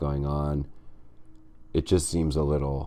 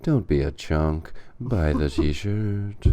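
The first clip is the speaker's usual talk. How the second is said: ad slogan; 2 semitones lower, slower than usual. Acted.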